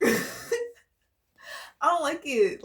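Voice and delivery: slow, whiny fake sob through the words; mock crying. Reader mock-whining about a bad energy, slow fake crying. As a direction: drag it out like a pretend cry.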